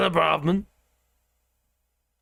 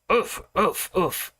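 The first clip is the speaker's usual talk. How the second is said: mock dog barks; slower than usual. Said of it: "or something like that".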